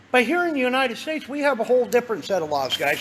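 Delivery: talking while walking around; slightly restless, walking as you talk; pacing back and forth. Real, not acted. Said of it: "Sorry, I'm walking around".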